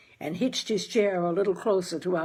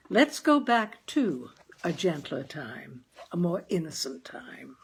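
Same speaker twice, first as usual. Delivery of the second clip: gentle slowing. Real, not acted. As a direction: ease listeners into the past. Host easing into the reading.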